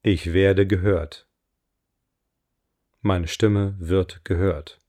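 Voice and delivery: slow, deliberate affirmation voice; affirmation reading. Acted. Coach reads her voice affirmations for listeners to repeat, slow affirmation reading. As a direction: read each line with weight and pauses.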